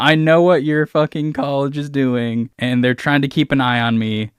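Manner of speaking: mock fury at the spying college; hammed-up angry accusation; angry villain.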